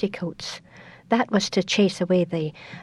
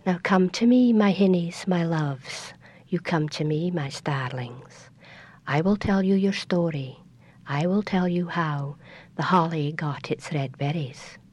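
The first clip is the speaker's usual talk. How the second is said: tender grandmother. Acted. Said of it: "and she'd say".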